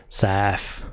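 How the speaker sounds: "south," said sarf, f for th; south in a South London sarf. Shown as a demonstration. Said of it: "it would be spelled S A R F".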